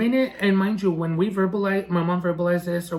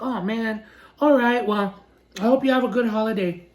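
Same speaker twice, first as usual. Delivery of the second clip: mock-polite send-off, a little higher; feigned regret, lightly pitched up; sarcastic mimicry; 4 semitones higher than usual. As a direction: imitate an insincere goodbye. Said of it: "so upset with his sarcasm".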